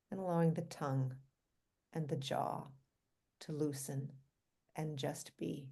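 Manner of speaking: calm, unhurried guiding voice with long pauses; guided meditation. Real, not acted. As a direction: gently lead listeners through relaxing the body.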